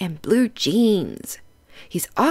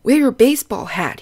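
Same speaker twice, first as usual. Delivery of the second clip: a hint of a coach, louder and quick; coach's voice; 3 semitones higher, 6 dB louder, faster than usual. Coach urging Pete to wear his hat, lightly voiced, louder and quick. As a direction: call it out like a peppy coach.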